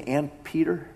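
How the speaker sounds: "And Peter" lifted as a stunned question; incredulous question. Shown as a demonstration. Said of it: "Did he really say".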